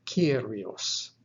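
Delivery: Kyrios said KEE-ree-os; Greek pronunciation. Shown as a demonstration. Teacher pronouncing a Greek example word, Greek pronunciation.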